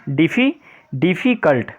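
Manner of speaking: डिफी left hanging, then डिफ़िकल्ट sounded out in parts; teacher sounding out the syllables of डिफ़िकल्ट. Shown as a demonstration. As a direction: break डिफ़िकल्ट up for the class, starting with डिफी. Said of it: "तीन syllable वाले".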